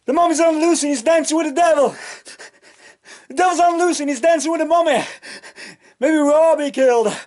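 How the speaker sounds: high, sing-song spooky character voice; Doobie's voice. Retold or imitated. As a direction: chant it like a giddy ghoul. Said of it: "He goes".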